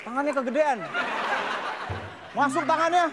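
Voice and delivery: hammed-up pickpocket caught with a big hand; pickpocket bit. Acting out a pickpocket scene.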